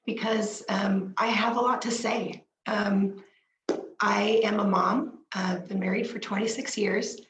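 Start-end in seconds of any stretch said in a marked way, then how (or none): 0.1-2.4 hoarse whisper, voice failing; whispery lost voice. Real, not acted. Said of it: "My voice is almost gone". 2.7-3.2 hoarse, breaking, half-whispered voice; voice giving out. Real, not acted. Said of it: "My voice is almost gone". 4.0-5.2 hoarse whisper, voice failing; whispery lost voice. Real, not acted. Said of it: "My voice is almost gone".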